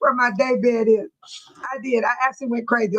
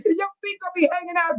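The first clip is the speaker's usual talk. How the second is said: words squeezed through laughter; can barely get it out for giggling; laughing; 4 semitones higher than usual. Real, not acted. Host reads shoe joke to viewers, laughing through it. Cracking up while reading comments.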